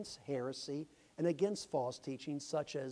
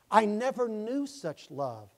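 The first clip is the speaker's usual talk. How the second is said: slower, higher and louder, filled with wonder; moved testimony; 5 semitones higher, 6 dB louder, slower than usual. Retold or imitated. Convert testifying to the church, slow and swelling. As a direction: let the wonder swell, slowly.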